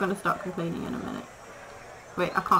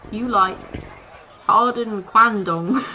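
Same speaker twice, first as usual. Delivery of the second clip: mock grand offer; 6 dB louder, slower than usual. Talking to zoo animals in game.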